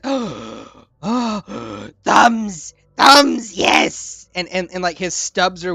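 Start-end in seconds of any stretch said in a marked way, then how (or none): 0.0-4.3 louder, higher joyful creature cry; thrilled with the new thumbs; rising, shouting creature delight. Acted.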